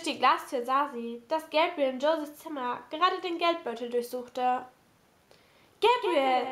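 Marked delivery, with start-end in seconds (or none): 5.8-6.5 mildly alarmed call. A narrator's reading. Kate sees Gabriel searching the purse, calling out. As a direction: call his name to stop him. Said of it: "rief sie".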